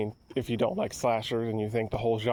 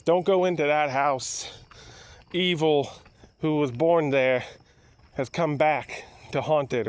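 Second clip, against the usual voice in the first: put-on crazy old drunk warning; slower than usual. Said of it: "some crazy dude, the Crazy Ralph of the movie, says".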